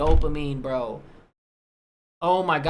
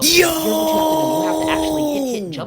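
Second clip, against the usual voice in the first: know-it-all nerd voice; 10 semitones higher, 7 dB louder than usual. Pretend. Mocking know-it-all gamer.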